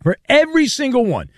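upbeat sports-radio sponsor read; lively host-read commercial. Acted. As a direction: punch the selling words, pitching the offer to listeners.

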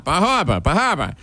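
"Bar Harbor" as "bah hahr-buh"; retold back-and-forth insistence. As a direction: repeat "Harbor" with an "uh" ending. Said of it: "I said".

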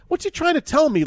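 inner thought. Retold or imitated. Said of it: "my thought is like".

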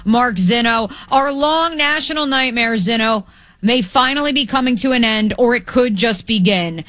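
sports radio host's scripted opener; radio show intro. Acted. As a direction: read the game day intro for broadcast. Opens radio show over music.

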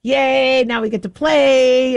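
excited puppy chatter, mommy's home; playful dog voice, lightly done; dogs' happy voice. Retold or imitated. Dogs greeting mom home, lightly voiced excited pup. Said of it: "the dogs are like".

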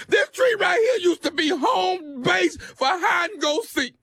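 mock sobbing shout; hammed-up tears over a broken tree; fake crying. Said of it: "Are you crying?".

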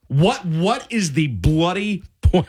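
a half-unintended British lilt on bloody point; British accent creeping in on the bloody point; drifting into a mock British accent while ranting; slipping into British. Real, not acted. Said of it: "I don't know why I'm turning British".

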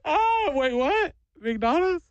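put-on high, sudden delighted kid; imitating an overjoyed child; mock kid excitement. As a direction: squeal like a kid promised a treat. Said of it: "I watched this kid immediately go".

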